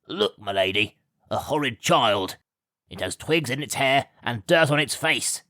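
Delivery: a hint of a snide servant pointing her out; lightly voiced, mock disgust; exclaiming servant. A narrator's reading. Gawk points out the messy child to his lady, lightly snide. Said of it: "exclaimed Gawk".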